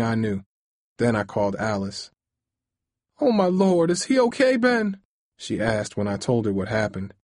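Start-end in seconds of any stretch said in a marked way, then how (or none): 3.2-5.0 high, alarmed question; shocked. Acted. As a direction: gasp it out in shock. Shocked news of heart attack.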